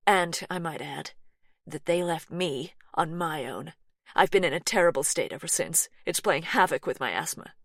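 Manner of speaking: lightly voiced American woman, a bit anxious; light American twang.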